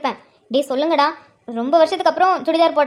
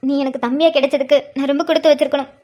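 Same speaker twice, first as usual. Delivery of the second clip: tears of joy. Real, not acted. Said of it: "ஆனந்த கண்ணீர் விட்டுட்டு இருக்காங்க".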